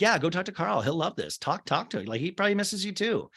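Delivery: imitating a sly friend who knows it will go badly; mock sly encouragement. Host mocks Paige pushing Maya toward Carl, sly sing-song. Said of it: "subtly threw Maya to the wolves".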